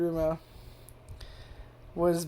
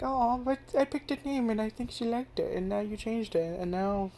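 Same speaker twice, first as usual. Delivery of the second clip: mock whiny complaint; 3 semitones higher, 4 dB quieter than usual. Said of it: "Well, like".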